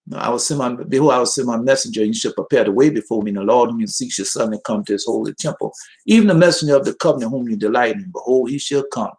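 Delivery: quick-running Bible verse recital; scripture reading. Real, not acted. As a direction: rattle off the verse at a fast clip. Reads a scripture verse aloud.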